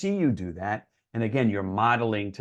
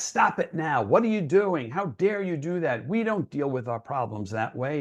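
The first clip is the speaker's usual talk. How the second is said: mock angry parent, pitch jumping higher; scolding outburst, higher on the questions; angry upset parent; 4 semitones higher than usual. Parent confronting a self-harming teen, in a mock angry scolding. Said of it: "If you come at it angry and upset".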